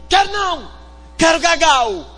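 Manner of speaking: put-on high, cross child's demand; whining child. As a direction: whine like a toddler refusing sleep. Child voiced refusing. (criança birrenta, voz aguda)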